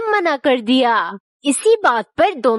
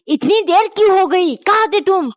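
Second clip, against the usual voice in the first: wife shouting at her late husband, raised angry voice; 5 semitones higher than usual. Acted. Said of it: "पत्नी चिल्लाई".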